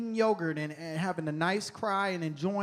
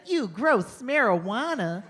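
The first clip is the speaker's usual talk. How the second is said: slow, higher mock kid's voice, drawn out; preachy TV-ad kid; 4 semitones higher, slower than usual. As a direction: mimic a disgusted anti-drug ad kid. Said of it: "they have the kids on T V".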